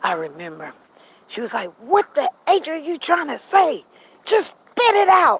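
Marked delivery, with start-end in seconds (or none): 1.8-5.4 acted, very high, exasperated shriek. Speaker recalls their mother yelling at someone who couldn't get words out; retelling mother's screaming. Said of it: "She was screaming at him".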